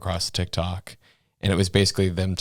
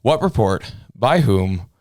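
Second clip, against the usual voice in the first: incredulous; 3 semitones higher, 5 dB louder than usual. Retold or imitated. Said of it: "I was like".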